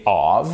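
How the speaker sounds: of with a voiced v, like "ov"; of said "ov", voiced ending; prononcé of, avec un v sonore. Shown as a demonstration. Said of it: "parce que ça se prononce of".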